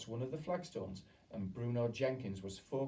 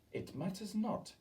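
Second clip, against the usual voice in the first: shouting; 11 semitones higher than usual. A narrator's reading.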